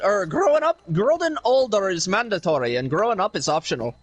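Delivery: lightly put-on Irish accent; casual mock Irish brogue for laughs. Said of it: "really good at the accent".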